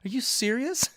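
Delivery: mock disbelief, rising high; hammed-up shocked reaction; amazed holy cow, voice jumping up; surprised. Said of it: "And I was like".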